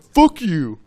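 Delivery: high, loud, through laughter; laughing mock insult. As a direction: toss it back while cracking up. Quoting guy outside window.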